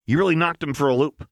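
high, loud manic glee; gleeful Jinx. Acted. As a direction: gloat loudly.

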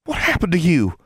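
high, alarmed demand; sharp high-pitched questioning. A narrator's reading. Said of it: "Constance demanded".

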